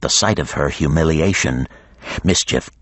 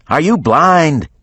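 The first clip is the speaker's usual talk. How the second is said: higher, slow, louder scold; exasperated yell; 10 semitones higher, 4 dB louder, slower than usual. A narrator's reading. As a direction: scold him for missing it. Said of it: "John Moot yelled".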